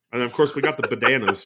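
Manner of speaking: quick, giggling through the line; cracking up while plugging the bananas; laughing. Real, not acted. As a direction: laugh as you announce the bananas. Announcing merch, laughing.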